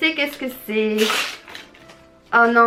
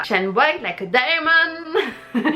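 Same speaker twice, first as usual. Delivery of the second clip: drawn-out English with a French accent; 3 semitones higher, much slower than usual. Real, not acted. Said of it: "désolée pour mon accent". (anglais étiré à l'accent français)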